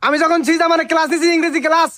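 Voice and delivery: high-pitched, self-important bragging; indignant boasting. Acted. Teacher boasts in quarrel.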